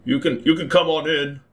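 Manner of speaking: calling up. A narrator's reading. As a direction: call out lightly, as if up to someone. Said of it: "yells up, he's like".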